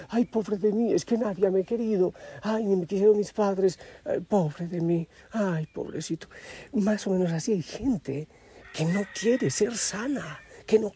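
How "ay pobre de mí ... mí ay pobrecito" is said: whiny poor-me lament; self-pitying whine. Retold or imitated. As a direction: moan in mock self-pity. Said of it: "es esa autocompasión".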